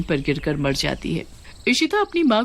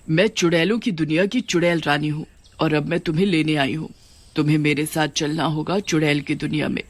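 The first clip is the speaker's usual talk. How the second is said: lower, commanding witch queen; a queen summoning a new witch, lower voice; 3 semitones lower than usual. Acted. (नीची आवाज़ में आदेश देती चुड़ैल रानी)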